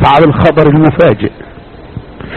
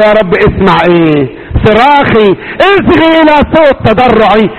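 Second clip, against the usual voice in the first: pleading prayer; 4 semitones higher than usual. Shown as a demonstration. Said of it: "يبقى اقول له".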